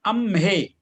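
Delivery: teacher demonstrating अम्हे with a distinct म्ह; clear pronunciation demo. Shown as a demonstration. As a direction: model अम्हे clearly, sounding both म and ह. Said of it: "थोड़ा सा और स्पष्ट उच्चारण होना चाहिए".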